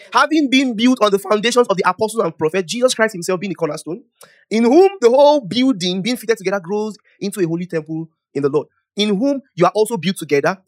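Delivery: loud, declaimed Bible reading; scripture reading. Real, not acted. Preacher reading scripture to the congregation, loud declaimed reading. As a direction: read the verse out to the whole room.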